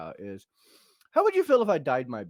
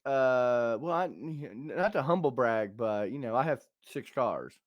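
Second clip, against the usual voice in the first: low, understated smugness with hesitations; mock smug humblebrag; 5 semitones lower, slower than usual. Host demonstrating a humble brag, mildly smug. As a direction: feign modesty, slowing into the boast. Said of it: "you're being very smug about it".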